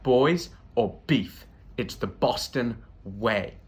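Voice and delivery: slow, a hint of a tough Boston guy; lightly voiced Boston bro. Boston guy explaining the local custom, slow mock bro. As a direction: lay down the rule slowly and lightly. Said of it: "And he was like".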